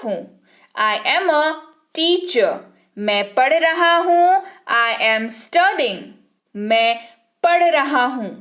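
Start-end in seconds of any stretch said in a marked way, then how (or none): 4.7-6.0 slow, careful model sentence; slow dictation. Shown as a demonstration. Teacher dictating to students, slow. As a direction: let every word land slowly. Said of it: "teacher models English sentence".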